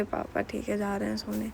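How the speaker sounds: soft, sheepish answer to papa; meek reply. Retold or imitated. Caught by papa after the prank, answering him meekly and softly. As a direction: give in quietly like a caught kid.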